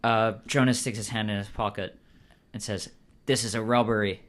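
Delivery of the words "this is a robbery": lightly voiced character with an English accent; put-on English accent. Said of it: "What is that accent?".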